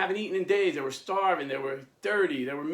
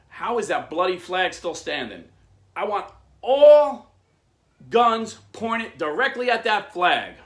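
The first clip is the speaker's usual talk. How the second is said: loud, high order with a huge drawn-out ALL; furious command; 5 semitones higher, 10 dB louder than usual. Retold or imitated. British captain ordering all guns on the flag, furious. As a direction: roar the order, punching each word slowly.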